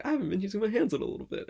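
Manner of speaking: high, fast realisation; self-quote. Retold or imitated. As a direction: rattle it off, suddenly noticing. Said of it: "I was like".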